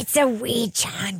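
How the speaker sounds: slow, hushed put-on New Zealand accent. Shown as a demonstration. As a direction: repeat it softly in a mock New Zealand accent. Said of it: "say it with the New Zealand accent".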